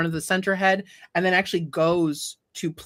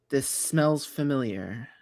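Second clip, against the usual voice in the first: well-spoken dog head; 4 semitones lower than usual. Acted. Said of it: "what it is saying to the exile".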